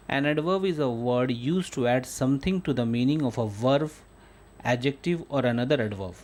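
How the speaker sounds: teacher dictating at half speed; slow dictation reading. Shown as a demonstration. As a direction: read the definition very slowly, word by word. Reads English definition to class.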